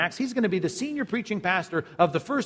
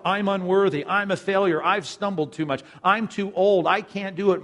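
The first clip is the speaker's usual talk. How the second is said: pleading excuses; 4 semitones higher, 5 dB louder than usual. Acted. Voicing a doubter's excuses.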